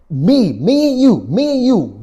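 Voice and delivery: high, loud, punching each word; rally him like a coach; fired-up rally. Real, not acted. Preacher rallying his viewer with a loud, high cry. Rallying listener, taking control back.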